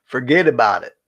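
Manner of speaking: New York catchphrase, repeated for effect; New York accent. Acted. Listing New York sayings for friends, New York accent. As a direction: lightly imitate a New Yorker's "forget about it". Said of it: "two things they say in New York".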